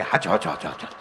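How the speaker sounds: low, meek yes-yes of a henpecked husband; deep submissive yes-man; meek husband agreeing. Retold or imitated. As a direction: mumble agreement like a timid husband. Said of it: "તો ઓલો બેઠો બેઠો કે".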